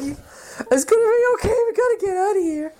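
retold comforting of a crying friend, pitched high; mock reassurance.

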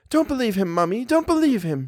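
high, insistent daughter's voice; urgent plea. A narrator's reading. Daughter reassures her terrified mother, high and urgent. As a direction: plead high, repeating it insistently. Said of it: "she repeated".

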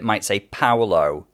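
"Paolo" said slowly and carefully; pronunciation example. Shown as a demonstration. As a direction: draw out "Paolo" as the reader's version. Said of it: "traditional Samoan pronunciation of what other people".

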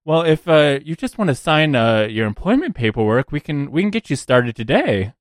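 a hint of a breezy hiring manager; lightly voiced recruiter. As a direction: lightly play a recruiter offering paperwork. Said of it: "and she goes".

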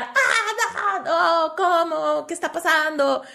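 high, tearful disbelief half laughing; overwhelmed cry of surprise, laughing and sobbing; laughing through tears. Retold or imitated. Wife opening the door to a surprise visit, laughing through tears. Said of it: "Me puse a llorar".

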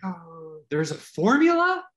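sudden wide-eyed realization; amazed discovery. Retold or imitated. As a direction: gasp then a high squeak of surprise.

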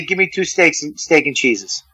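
the Boston way, "steak and cheeses", said softly; Boston order. Shown as a demonstration. To the hosts showing how a Boston order sounds, in a soft voice. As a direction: order it the way they would in Boston, quietly. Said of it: "I would say".

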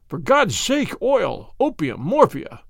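cried in agony. Acted. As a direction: drag out the plea through pain. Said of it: "he cried".

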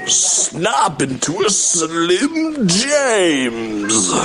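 slow drawn-out British wrestler growl; British Randy Savage. Retold or imitated. Mock British wrestler plugging a snack. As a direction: stretch it out like a posh wrestling promo. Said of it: "my impression of a British Randy Savage".

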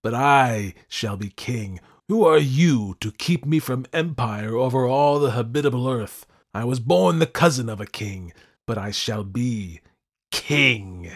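loud, grandiose raving; crying out. A narrator's reading. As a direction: proclaim yourself like a mad monarch. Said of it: "I cried".

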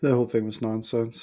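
yawning while talking. Real, not acted. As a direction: say it mid-yawn. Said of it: "You were yawning when you did it, right on cue".

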